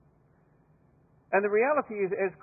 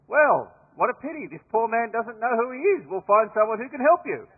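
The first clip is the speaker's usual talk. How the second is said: raised, louder voice of fake concern; cheeky mock sympathy; 5 semitones higher, 6 dB louder than usual. Aussie privates mocking the British major, cheeky fake concern. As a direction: tease him with pretend pity. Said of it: "they look at him and go".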